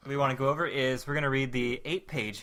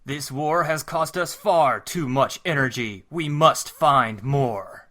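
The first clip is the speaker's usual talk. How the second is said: Optimus Prime; 4 dB louder, slower than usual. Acted. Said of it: "I'll be Optimus".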